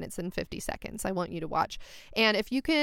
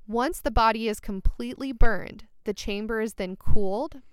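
sexy voice. Pretend. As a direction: read it like a seductive bedtime story. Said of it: "reading that, like, in a sexy voice".

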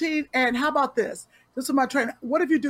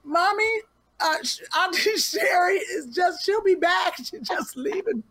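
put-on child's voice; 6 semitones higher than usual. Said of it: "Joshua was like".

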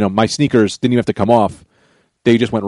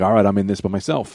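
low, soft retold self-talk; resigned aside; 5 semitones lower, 7 dB quieter than usual. Abandoned by his schoolmates, talking to himself, low and quiet. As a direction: say it small and low, to yourself. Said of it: "And I'm like".

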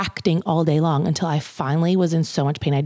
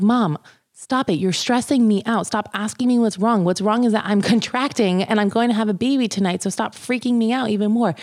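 annoyed; 5 semitones higher than usual. Retold or imitated. Snapping at fretting mom.

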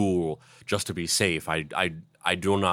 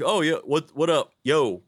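casual mock greeting; 6 semitones higher, 3 dB louder than usual. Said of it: "I was like".

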